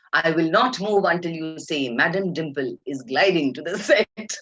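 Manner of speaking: slow, insistent mock diva; Dimple Kapadia. Star refusing to move before assistant obeys, imitated imperious insistence. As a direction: spell out the demand with imitated grandeur. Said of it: "this poor girl was standing there looking at her".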